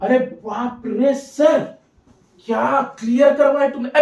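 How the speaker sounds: drawn-out, hammed-up student awe; mock amazement. Teacher playing a student impressed by the lesson, mock amazement. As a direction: stretch each word in put-on wonder.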